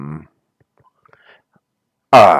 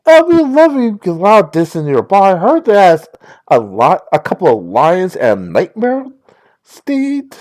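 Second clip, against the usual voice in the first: put-on Valley Girl voice. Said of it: "my Valley Girl voice".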